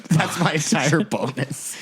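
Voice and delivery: high-pitched, slow mock wail; hammed-up whimper over lost money; mock despair. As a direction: squeak it out slowly, pretending to be crushed. Acting shopper despairing over spent bonus.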